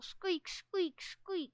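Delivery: high mock scavenger squeaks; playful little-creature squeaking; annoying squeaks. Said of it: "and other annoying scavenger noises".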